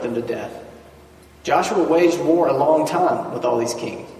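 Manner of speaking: measured Bible reading to the congregation; scripture reading. Acted. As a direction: lay the verses out steadily, like a lectern reading. Reads scripture aloud.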